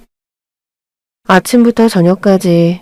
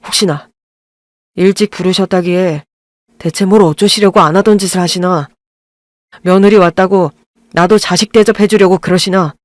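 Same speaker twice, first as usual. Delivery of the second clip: resentful son. Acted. Husband confronting his mother over years of neglect, bitter voice. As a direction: let the old hurt leak through.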